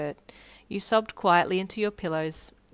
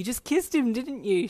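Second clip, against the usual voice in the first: higher-pitched excited squeal, held in volume; 5 semitones higher than usual. Acted. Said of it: "she squealed".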